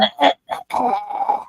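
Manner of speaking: imitated phlegmy throat-clearing; old-man throat noise. Showing friend the bad-allergy morning noises, mock old-man hacking. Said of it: "the old man stuff going on".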